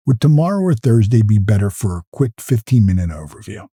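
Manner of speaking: low-pitched, gentle invitation; really soft ask. Shown as a demonstration. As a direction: ask softly, without any pressure. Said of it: "use a really soft ask like this".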